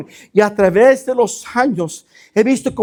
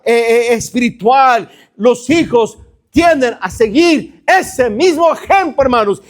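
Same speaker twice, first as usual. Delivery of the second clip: forceful, driving sermon delivery; preaching; 2 semitones higher than usual. Acted. Pastor warns congregation that children inherit parents' faults, preaching. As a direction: preach it insistently, piling phrase on phrase.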